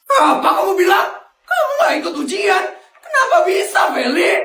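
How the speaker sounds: high, fast angry outburst; furious dad shouting; angry father. Acted. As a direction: scold her in disbelief. Father shocked daughter skipped exam.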